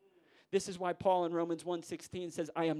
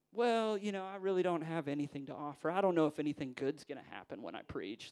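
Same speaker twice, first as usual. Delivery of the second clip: mock humility; 4 dB louder than usual. Preacher playing down what he can offer, mock humility. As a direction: play the self-doubting preacher, letting the pitch fall away. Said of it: "we may start playing this".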